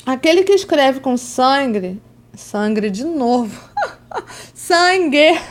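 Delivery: laughing bad Italian accent; hammed-up Italian accent, giggling; terrible Italian accent. Shown as a demonstration. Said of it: "fico falando com sotaque italiano terrível".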